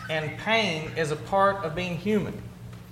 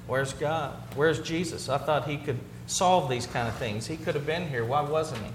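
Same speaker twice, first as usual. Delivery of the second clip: soft, lowered voice of doubt; 3 semitones lower, 5 dB quieter than usual. Acted. Preacher voicing the mourners' doubt about Jesus, softly doubting. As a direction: quietly question where God was. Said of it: "It's a statement of doubt".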